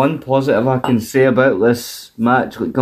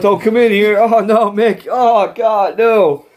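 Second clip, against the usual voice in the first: panicked mock plea; 6 semitones higher, slower than usual. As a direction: beg him to stay out in a fluster. Panicked fake sick Christian.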